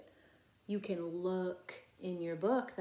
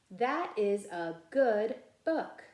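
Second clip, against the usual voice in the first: louder, slow and clear: that is a good book; model reading; 6 dB louder, slower than usual. Shown as a demonstration. Teacher reading a sentence aloud for first graders to echo. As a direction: read it out boldly for the class to copy. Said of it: "you can be my echo".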